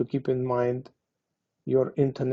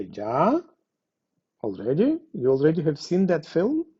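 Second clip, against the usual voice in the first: surprised question; 3 semitones higher than usual. Shown as a demonstration. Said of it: "Or could say".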